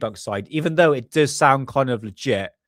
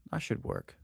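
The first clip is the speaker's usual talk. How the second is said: whispered to himself; 4 semitones higher, 12 dB quieter than usual. Real, not acted. Muttering to himself at the computer.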